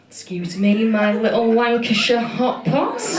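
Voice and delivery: put-on slow, doting call to old ladies; fond greeting. Homesick comic greets three old women, slow and doting. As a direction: greet them like long-lost family, slowly. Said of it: "and I said".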